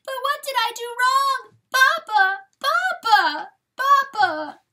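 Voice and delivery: very high, loud wailing cry; highest sorrow. A narrator's reading. Fawn crying after departing Papa, high sorrowful wail. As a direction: scream after him in grief, high and drawn out. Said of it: "raised her voice to the highest sorrow".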